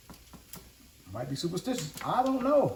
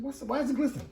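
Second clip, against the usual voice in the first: quoting a viewer; 10 semitones higher, much faster than usual. Retold or imitated. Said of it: "You said".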